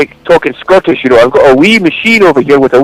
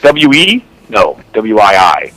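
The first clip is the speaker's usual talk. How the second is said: spelling it out; 3 semitones lower, much slower than usual. Retold or imitated. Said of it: "He's like".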